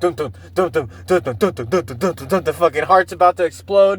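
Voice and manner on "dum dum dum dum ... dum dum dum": heartbeat imitation. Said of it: "heart starts going".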